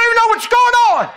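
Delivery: high, loud laughing exclaim; a shout broken by laughter; laughing cry. Real, not acted. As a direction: burst out laughing mid-sentence.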